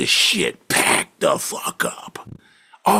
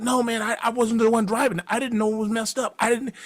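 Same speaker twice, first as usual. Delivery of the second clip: 1 backpedaling; 8 semitones higher than usual. Retold or imitated. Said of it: "he's backpedaling like a motherfucker".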